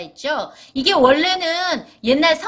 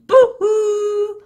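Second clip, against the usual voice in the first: long, drawn-out ghost "boo"; ghostly boo; 9 semitones higher, 5 dB louder, much slower than usual. Shown as a demonstration. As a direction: hoot it like a haunting ghost. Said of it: "이 유령들이".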